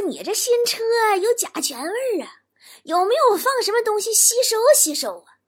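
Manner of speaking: high-pitched mother-in-law voice; nosy mother-in-law, pitched well up. Acted. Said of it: "我老丈母娘就问我".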